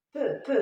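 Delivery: "Peu" said with a rounded eu vowel, not pi. Shown as a demonstration. Teacher shows the child the sound, rounding "Peu". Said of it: "c'est pas pi".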